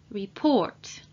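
report, stressed on PORT; careful pronunciation. Shown as a demonstration. Teacher models the English word for learners, carefully pronounced. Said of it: "we pronounce them like this".

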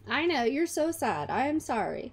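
mock sympathy. Soothing a crying game baby.

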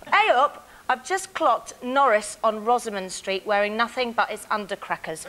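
broad northern Corrie voice; northern accent. Shown as a demonstration. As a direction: read it like a Weatherfield local. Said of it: "in your best northern accent".

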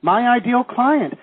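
high, loud, slow punch on "ideal"; stress on ideal. Shown as a demonstration. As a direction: hit "ideal" hard and stretch it. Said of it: "emphasis on the word ideal".

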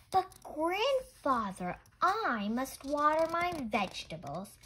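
put-on pleading little girl. A narrator's reading. Miyuki pleads again.

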